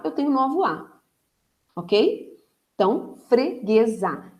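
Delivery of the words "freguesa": freguesa slowed, syllables apart, weight on gue; stressed middle syllable. Shown as a demonstration. Teacher showing gue stays tonic, freguesa slow and stressed on gue. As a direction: draw out freguesa, leaning on gue. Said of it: "esse gue aqui, ele continua sendo tônico".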